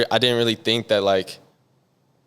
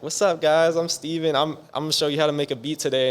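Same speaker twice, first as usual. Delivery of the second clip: high, squeaky video-intro greeting, imitated; high squeaker voice; 7 semitones higher than usual. Producer mocking his own old video intro to interviewers, high squeaker voice. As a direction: mimic your younger self, pitched way up. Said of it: "high squeaker voice".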